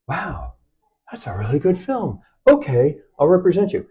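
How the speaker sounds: quoted admiration, rising into agreement; impressed agent. Retold or imitated. Agent after finally watching the film, impressed. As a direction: act out being won over, pitch lifting.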